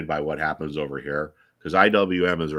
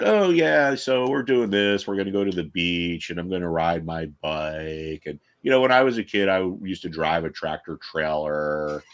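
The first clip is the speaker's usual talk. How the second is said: lightly voiced Biden, rambling and slowed; a hint of Biden telling a tall tale; Biden impression. Mocking Biden rambling to a camera, lightly voiced. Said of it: "you can tell Biden lies".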